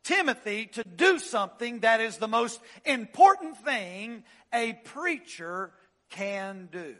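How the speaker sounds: sermon delivery with weight on charging; preaching. Acted. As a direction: lay the charge on them like Paul. Preacher reads Paul's charge.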